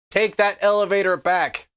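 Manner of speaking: ordinary delivery, nothing marked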